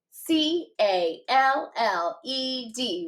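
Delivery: letters tapped out slowly one by one; slow spelling. Shown as a demonstration. Teacher modelling spelling for students, slow tapped letters. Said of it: "Let's do it again".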